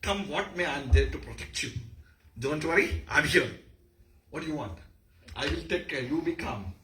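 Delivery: lightly acted confident protector; brave warrior. Shown as a demonstration. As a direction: reassure them with a hint of heroic confidence. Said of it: "that's a gesture of a brave warrior".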